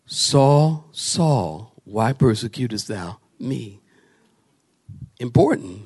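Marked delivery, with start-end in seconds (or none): 0.0-3.8 low, soft retold voice from heaven; hushed, solemn address; Jesus. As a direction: let the call sink lower and softer. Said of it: "he hears Jesus say".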